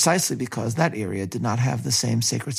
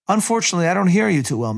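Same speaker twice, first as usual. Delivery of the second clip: raised, higher voice as if the phone line is bad; calling over bad line; 6 semitones higher, 4 dB louder, faster than usual. Ford straining to be heard by Sadat on a bad line, raised voice. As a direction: call out loud so the far end can hear.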